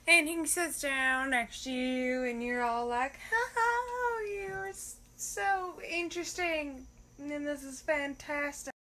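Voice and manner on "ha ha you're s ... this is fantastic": fake laugh.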